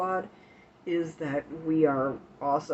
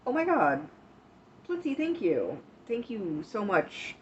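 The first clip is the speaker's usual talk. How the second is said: surprised; 4 semitones higher than usual. Real, not acted. Surprised by a gift.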